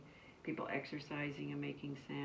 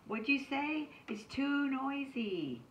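higher, louder yell over noise; 11 semitones higher, 6 dB louder, slower than usual. A narrator's reading. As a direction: shout over a noisy park. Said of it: "yelled her mother".

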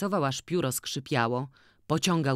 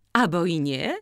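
jaunty; 3 semitones higher, 4 dB louder than usual. Acted. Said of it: "zawołała zuchowato".

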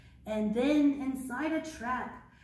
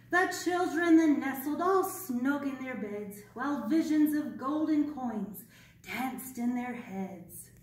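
put-on bright, lively read-aloud to children; story narration. A narrator's reading. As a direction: read the rhyme out to the class. Reads rhyming story aloud.

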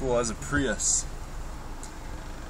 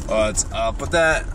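low deadpan take; 4 semitones lower than usual. Shown as a demonstration. To himself, about the barking dog, low deadpan repeat. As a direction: lower pitched, flat-out repeat of what's up with that.

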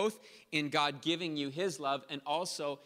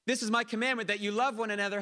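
"This is my commandment" preached higher and louder; preaching; 7 semitones higher, 5 dB louder than usual. Shown as a demonstration. Pastor proclaiming Jesus' commandment to the church, loud. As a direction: proclaim "that you love one another" out loud. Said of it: "the passage said again, preached".

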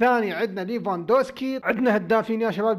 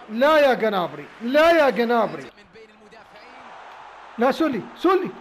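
frustrated shout; 4 dB louder than usual. Real, not acted. Gamer shouting at his player for missing, loud dismay. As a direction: groan at the missed chance out loud. Player Gnabry misses chance.

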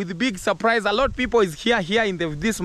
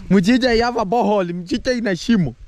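teasing; 4 dB louder, faster than usual. Real, not acted. Teasing wife about holey greens.

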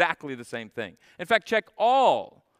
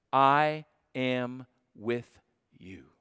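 slow solemn quote; 4 semitones lower, much slower than usual. Acted.

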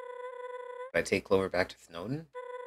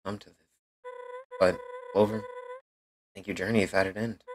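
tearful. Real, not acted. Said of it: "I'm gonna cry".

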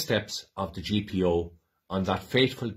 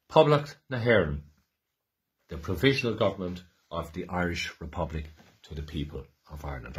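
emotional; 2 semitones lower, faster than usual. Real, not acted. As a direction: overcome with emotion, words breaking down. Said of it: "I'm sorry if I get emotional".

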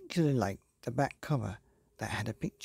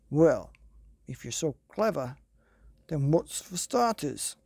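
blustering; 3 semitones higher than usual. Acted. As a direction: bluster to cover your ignorance. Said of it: "blustered the Big Wolf".

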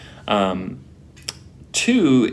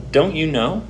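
incredulous; 6 semitones higher than usual. Retold or imitated. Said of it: "This should be elementary".

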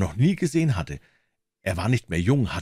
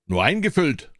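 higher, lightly called command; calling out; 7 semitones higher, 4 dB louder than usual. A narrator's reading. Soldier urges devil to fill the boot, calling out. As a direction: call it out to hurry him on. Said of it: "rief der Soldat".

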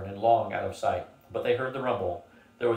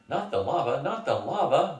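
rising mild plea, louder at the end; pleading; 4 semitones higher, 3 dB louder than usual. Acted. Williams pleading with September, mildly desperate. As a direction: beg them to understand, a touch desperate. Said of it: "Williams was pleading".

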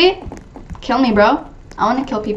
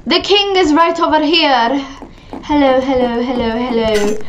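lightly voiced creepy king; a hint of an eerie royal greeting. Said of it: "that actually looks creepy".

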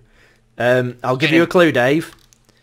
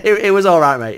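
put-on Geordie accent; 5 semitones higher, 5 dB louder than usual. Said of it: "Geordie accent".

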